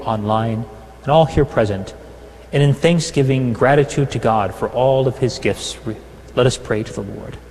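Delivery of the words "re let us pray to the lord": ordinary delivery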